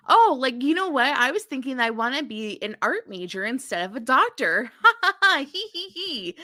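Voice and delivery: mock airy daughter. Felicity telling parents about art major, giddy mock giggle. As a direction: toss off big news with a silly titter.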